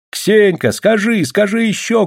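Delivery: high, eager crowd cry; women's calls. A narrator's reading. Village women urge Ksenia on, crying out. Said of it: "кричали бабы".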